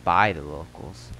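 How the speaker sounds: local telling a town legend in a lightly put-on accent; slightly acted storyteller; lightly voiced townsman. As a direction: spin the rumor as an in-game character.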